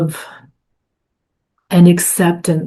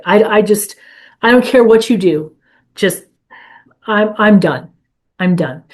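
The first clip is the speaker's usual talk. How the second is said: desperate prayer, retold. Woman in her car telling God she is done, weary plea. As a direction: hand it over, worn out and done. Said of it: "I said".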